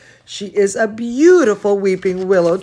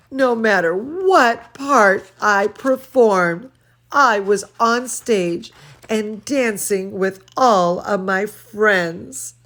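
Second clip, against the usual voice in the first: lively read-aloud voice; storybook reading for children; story reading; 3 dB louder than usual. A narrator's reading. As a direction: read to the kids with expression. Reads picture book aloud.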